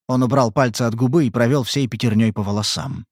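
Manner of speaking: usual speaking voice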